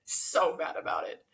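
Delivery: hushed whisper, low and breathless. Shown as a demonstration. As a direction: drop to a whisper. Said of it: "Thor's so mad about it".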